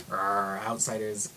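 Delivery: a hint of a slow, grumbling local; slow, half-hearted mock menace; mock hostile local. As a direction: lightly growl it out slowly like a wary villager. Acting out imagined hostile locals.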